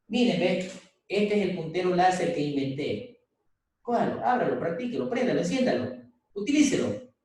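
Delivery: a hint of an eager inventor handing over his laser; demo presenter. Shown as a demonstration. Teacher acting a student handing the jury a laser pointer, mildly eager. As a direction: urge them to try it, lightly acted. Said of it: "suponiendo, se me ocurre".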